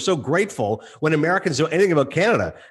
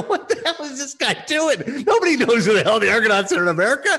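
mock-incredulous, pitched up at first; incredulous reaction; 3 semitones higher than usual. Co-host recalling his baffled reaction on air, incredulous. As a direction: play up baffled disbelief.

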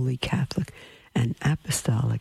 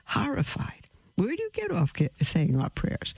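horrified; 7 semitones higher than usual. Retold or imitated. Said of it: "I was just horrified".

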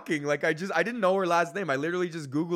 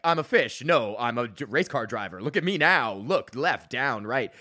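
hammed-up ad character; 2 semitones lower, 3 dB louder than usual. Acts out pitched commercial script.

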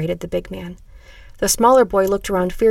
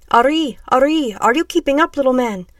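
raised, higher calling voice; shouted; 5 semitones higher, 5 dB louder than usual. A narrator's reading. Big man to small boy while fleeing, shouted. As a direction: shout it out as you run. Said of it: "shouted out a big, dark-skinned man".

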